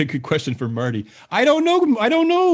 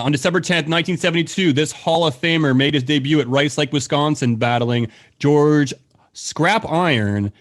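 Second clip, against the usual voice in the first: slow repeat read. Acted. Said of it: "Can you repeat that one more time?".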